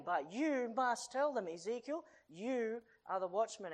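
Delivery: loud, high, proclaiming as God; God's commanding voice. Acted. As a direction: declare it like a voice from heaven. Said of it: "He says".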